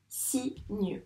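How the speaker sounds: "Cygne" softly as si, gneu; soft "Cygne" with a separate final gneu; split into syllables. Shown as a demonstration. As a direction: quietly sound out "Cygne" in two beats. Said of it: "On entend bien le son s".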